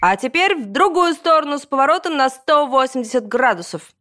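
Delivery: high-pitched PE teacher drill call; scary yelling. A narrator's reading. Gym teacher ordering the class to turn, yelling in a scary voice. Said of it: "орать страшным голосом".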